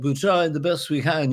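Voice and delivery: put-on light Liverpool lilt like a young pop star; a touch of Scouse, sixties band-interview style; hint of a Liverpool accent. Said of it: "this sort of accent".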